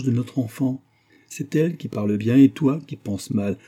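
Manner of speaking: solemn, mildly prophetic rebuke; understated prophetic reproach; almost prophetic. A narrator's reading. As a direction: admonish him like a prophet. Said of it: "prenait un accent presque prophétique".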